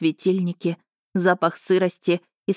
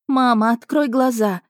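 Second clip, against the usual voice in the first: put-on higher, louder pleading little boy; desperate child's plea; 5 semitones higher, 4 dB louder than usual. Boy begging his unconscious mother, desperate cry. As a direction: beg her to wake up.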